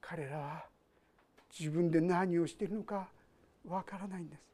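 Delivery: soft, near-whispered words of Jesus; gently hushed, almost whispering; hushed quote. Acted. Preacher quoting Jesus' words softly.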